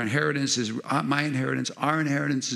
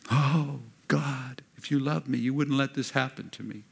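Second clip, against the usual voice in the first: mock syrupy plea, raised a little; lightly put-on sickly-sweet lament to God; 4 semitones higher than usual. Preacher mimics someone blaming God, syrupy mock plea. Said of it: "It's a syrupy sick".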